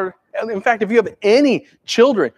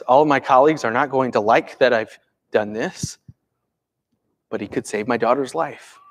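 Jairus's anguish; 6 semitones lower than usual. Retold or imitated. A hint of the father Jairus torn over his dying daughter, low. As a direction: weigh it in a low, troubled voice. Jairus's inner dilemma voiced.

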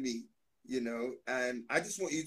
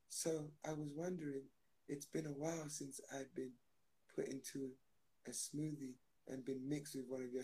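banana speaking; 3 semitones lower, 16 dB quieter than usual. Pretend. Banana voiced, speaking as itself.

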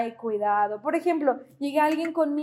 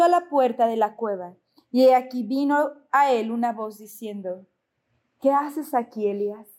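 measured, building scripture reading that drops to a hush at the end; preacher reading the Bible to the congregation. Acted. Reads 1 Kings passage.

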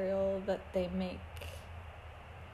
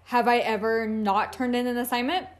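louder, insistent protest; retold self-defence; 2 semitones higher, 5 dB louder, faster than usual. Student challenging her instructor over a bad grade, insistent. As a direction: push each question out louder, as a challenge. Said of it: "me sitting down beside her and going".

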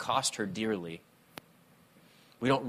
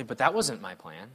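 rising, higher pleading protest; mock complaint to God about the plan; complaining to God; 3 semitones higher than usual. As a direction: whine at God like a let-down child.

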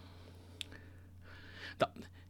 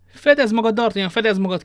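higher, loud urgent warning shout; 7 semitones higher, 7 dB louder than usual. A narrator's reading. Athos warns D'Artagnan before firing, shouting. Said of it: "kiáltotta Athos".

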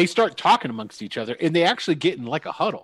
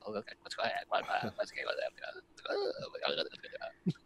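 hushed, breathy goblin whisper, much softer; 3 semitones lower, 14 dB quieter, slower than usual. Acted. Goblins muttering nervously to each other, whispered. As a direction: whisper it fast among yourselves, then draw the last one out slowly. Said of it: "whispering to each other".

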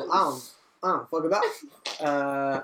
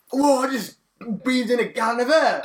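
louder, amazed gasp-line; a touch louder, amazed; mock amazement; 7 semitones higher, 4 dB louder than usual. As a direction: act out the rush of fresh air. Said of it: "It's like".

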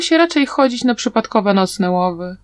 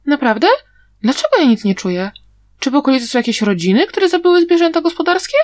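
quick, questioning character voice rising at the end; a hint of a chattering girl playing innocent; lightly voiced feigning girl; 5 semitones higher, faster than usual. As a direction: rattle off questions, fast and lightly acted. Voices A-Qing feigning ignorance.

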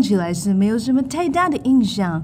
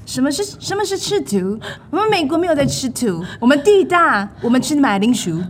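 put-on American accent.

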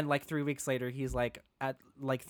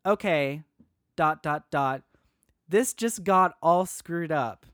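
reading dad's text; 5 dB louder than usual. Retold or imitated.

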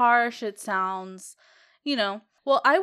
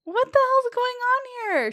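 incredulous; 13 semitones higher, 4 dB louder than usual. Retold or imitated. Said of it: "And I'm like".

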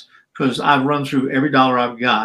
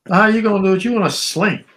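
higher incredulous question; 7 semitones higher than usual. Retold or imitated. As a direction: doubt him, voice up in disbelief. Boss doubts injured man.

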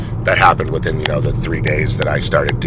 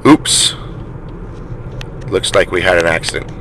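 very calm. Retold or imitated. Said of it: "very calmly".

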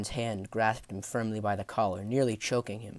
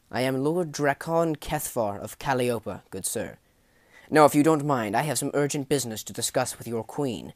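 formal lord's self-introduction, lightly acted; lightly voiced lord; 3 semitones higher, 5 dB louder than usual. Lord introduces himself formally to guards.

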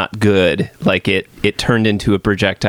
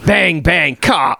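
shrill screeching bird woman; 7 semitones higher, much slower than usual. Pretend. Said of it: "Let me do a quick impression for you".

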